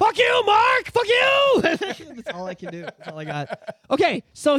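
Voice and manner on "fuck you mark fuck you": high, loud yelled curse at a friend; mock outrage. Real, not acted. Fan yelling at his co-host over the plot twist, loud mock outrage. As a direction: blow up at Mark, half joking.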